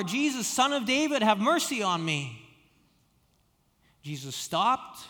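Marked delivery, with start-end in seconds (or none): 0.0-2.4 yelled all the more. Retold or imitated. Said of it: "Bart yelled all the more".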